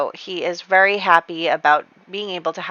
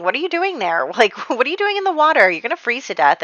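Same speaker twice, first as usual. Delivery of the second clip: raised, scolding mock call; retold shout; 5 semitones higher than usual. Woman tells the man in freezing water he'll freeze, mock shout. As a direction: call out to the swimmer in disbelief. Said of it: "like, shouts to him".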